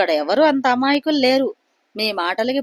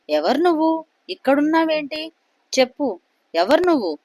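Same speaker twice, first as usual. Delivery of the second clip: higher, alarmed demand; startled shout; 5 semitones higher than usual. Acted. Suresh to the strange woman at his bedside, startled shouting. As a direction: cry out at a stranger, pitch up high. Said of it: "అని గట్టిగా అరిచాడు".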